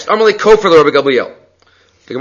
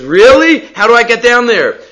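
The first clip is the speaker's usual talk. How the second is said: much higher, louder excited question; eager wolf; 7 semitones higher, 4 dB louder than usual. Retold or imitated. Wolf eager to reach the cheese, much higher and excited. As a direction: gasp it out like a greedy wolf who smells cheese.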